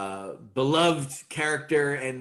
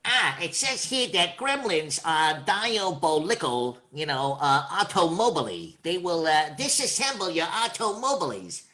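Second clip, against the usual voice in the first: Bugs Bunny voice; 3 semitones higher than usual. Shown as a demonstration. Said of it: "book passage that he reads".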